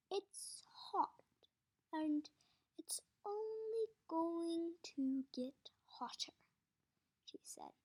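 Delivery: the warden. Acted. Warden voice held.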